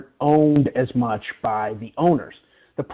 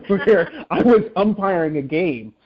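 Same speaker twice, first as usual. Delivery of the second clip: laughing; 4 semitones higher, slower than usual. Real, not acted.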